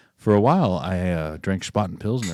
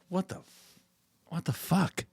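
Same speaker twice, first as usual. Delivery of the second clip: baffled; 8 semitones higher, 10 dB quieter, slower than usual. Retold or imitated. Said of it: "He's like".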